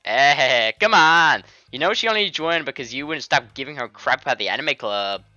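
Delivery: loud, teasing fake Indian accent; badly faked Indian accent, needling a friend; attempted Indian accent. Friend teasing Natsuki about the club, in a hammed-up Indian accent. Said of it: "tried to do an Indian woman accent".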